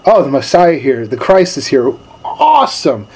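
casual, unimpressed "Oh, the Messiah here"; a fisherman shrugging off the Messiah, mildly casual; offhand shrug. Retold or imitated. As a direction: brush off the big news like it's nothing. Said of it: "we just go right back to our daily norm".

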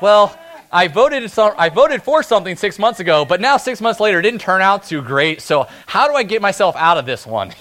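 hammed-up excuse-making politician; dodging politician. Preacher mocking a politician's excuses, hammed-up. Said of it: "a politician that is like".

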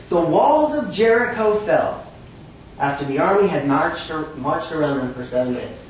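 put-on a faint, joking Irish accent on the verse. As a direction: read the Jericho verse in a light mock Irish lilt. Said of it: "That's my Irish accent".

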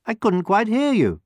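fox's high, wheedling question. A narrator's reading. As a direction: ask as if hard of hearing. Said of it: "asked the fox".

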